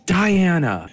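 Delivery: hammed-up indignant British accent; mock British outrage, swooping high; over-the-top Brit, pitch leaping on questions. Shown as a demonstration. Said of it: "the way you do British".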